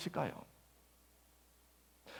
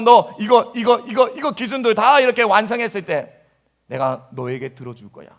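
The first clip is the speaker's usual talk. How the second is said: demanding God. Retold or imitated. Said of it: "마치 그렇게 하나님을 많이 많이 오해하는".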